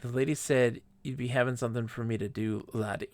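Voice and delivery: lightly voiced Scottish character; Scottish accent. Game character passing on word from the lady, light Scottish accent. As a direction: read it with a hint of a Scottish lilt. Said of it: "You're making fun of me accent".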